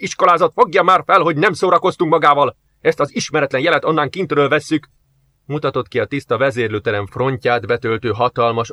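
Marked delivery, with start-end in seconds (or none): 0.0-4.9 raised, heated rebuke; a fed-up officer losing his temper; angry officer. Acted. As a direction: tell him off, fuming. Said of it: "a feldühödött Jarisovtól".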